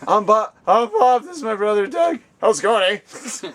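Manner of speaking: high, loud Canadian comedy-duo voice; Bob. Shown as a demonstration. Host introducing brother Doug as Bob, high put-on voice. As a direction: push it up high, stretch out the final "eh". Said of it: "I'll do the voice".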